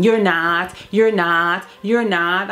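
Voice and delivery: evenly repeated denial, lightly acted; imitated repeating. Son denying his mother over and over, imitated repetition. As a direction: lightly mimic someone stuck on one phrase.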